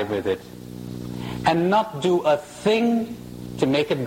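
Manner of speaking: slow and deliberate, with spaced-out phrases; unhurried, letting each phrase land; said slowly. Shown as a demonstration. Speaker repeats the question to the audience, slowly. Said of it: "I'll say this slowly".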